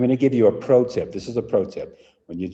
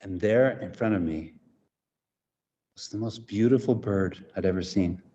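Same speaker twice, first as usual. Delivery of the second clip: sudden hush; 2 semitones lower, 5 dB quieter than usual. Shown as a demonstration. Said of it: "use the sudden whisper".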